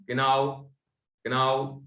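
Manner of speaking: किनाओ said letter by letter, every letter spoken; wrong reading. Shown as a demonstration. Teacher mocking a letter-by-letter reading किनाओ. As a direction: read किनाओ out the way the letters look. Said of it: "तो नहीं बोलेंगे ना".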